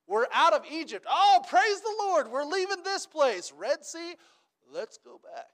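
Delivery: high, loud mock cheer of the Israelites; mock excitement. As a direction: ham up their giddy joy at leaving. Preacher mocks Israelites' excitement.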